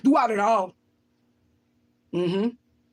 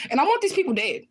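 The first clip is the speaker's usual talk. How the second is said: raised pitch, vehement; angry declaration; 6 semitones higher than usual. Real, not acted. Telling viewers what she wants for her kidnappers, angry. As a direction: state it with real anger.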